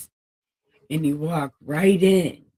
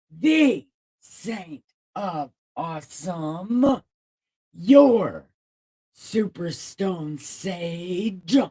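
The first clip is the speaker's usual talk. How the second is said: pompous announcer; 3 semitones higher, 5 dB louder, slower than usual. Pretend. Grandly announcing own titles.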